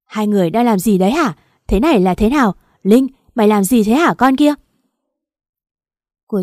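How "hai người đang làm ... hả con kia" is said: furious shout at husband and friend; screaming. Acted. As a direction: scream it out in betrayed rage. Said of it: "Tôi gào lên".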